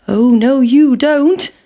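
cheeky escape cry; defiant pancake. A narrator's reading. Pancake dodging the frying pan, squeaky defiance. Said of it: "said the pancake".

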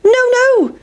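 high, loud no; pancake refusing. Acted. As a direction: squeak a refusal. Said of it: "said the big pancake".

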